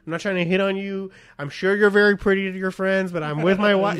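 mildly hammed-up polite brush-off; very dismissive. Husband pretending not to hear her, mock dismissive.

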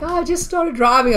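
high put-on girlish voice; squeaky little kid. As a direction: imitate a bad actress playing innocent. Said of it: "squeaky little kid voice".

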